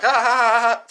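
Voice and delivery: loud fake ha-ha laugh; cartoonish forced laughter; mock laugh. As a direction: bark out a hammed-up laugh. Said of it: "it took me, like, a month to get back to normal".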